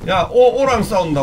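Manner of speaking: ordinary talk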